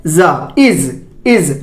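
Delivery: "जा" as zaa, "इज" as iz; low, falling zaa, iz; Z sound. Shown as a demonstration. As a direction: buzz the z in "जा" and "इज". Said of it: "क्या बोलेंगे?".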